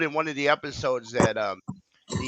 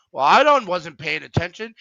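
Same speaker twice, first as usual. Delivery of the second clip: high, loud start then trailing off sheepishly; sheepish excuse; 5 semitones higher, 6 dB louder than usual. Retold or imitated. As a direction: blurt out a lame excuse. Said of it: "He goes".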